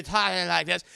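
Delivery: mock overdone drunk talk. Shown as a demonstration. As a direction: parody an actor overplaying drunkenness. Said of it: "sometimes it could be overdone".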